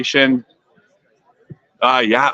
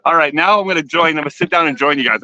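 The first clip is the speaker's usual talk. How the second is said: breathless after throwing; puffing between words, winded; out of breath. Real, not acted. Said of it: "I'm out of breath".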